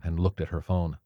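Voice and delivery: plain reading voice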